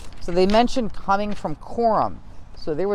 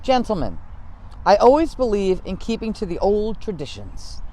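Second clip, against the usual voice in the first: Washington quote; 4 semitones higher than usual. Retold or imitated. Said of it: "he said".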